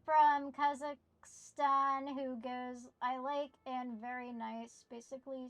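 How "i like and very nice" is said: light mock Middle Eastern accent; Borat. Streamer explaining Borat to chat, mock Middle Eastern accent. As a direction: do a thick-accented catchphrase, lightly. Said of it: "thick Middle Eastern accent".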